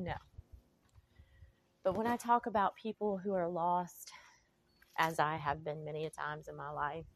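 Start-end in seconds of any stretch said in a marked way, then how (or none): 1.8-4.1 whispered. Real, not acted. Whispered confession to viewers.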